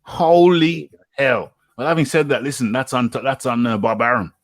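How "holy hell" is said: very slow, high exclamation of disbelief; bigger, long-stretched astonishment; emphatically stunned. Real, not acted. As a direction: draw it right out, pitched high. Repeats stunned reaction, bigger.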